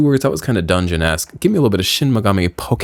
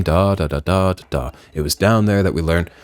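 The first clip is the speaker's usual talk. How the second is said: game character voice; 2 semitones lower than usual. Shown as a demonstration. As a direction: demonstrate your go-to character voice. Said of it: "this part of my voice that I do for the voice".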